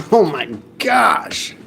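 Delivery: slow, strained gasp of effort; carrying heavy load. Real, not acted. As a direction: let it out while hauling weight. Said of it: "that was really heavy".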